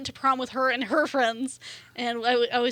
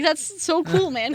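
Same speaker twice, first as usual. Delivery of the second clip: hippie voice; 5 semitones higher, slower than usual. Retold or imitated. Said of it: "talk like a hippie".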